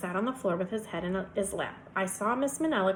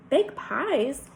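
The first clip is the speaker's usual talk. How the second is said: higher, questioning repeat; puzzled echo; 5 semitones higher, 4 dB louder than usual. A narrator's reading. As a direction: echo it back in disbelief. Surprised repeat of odd request.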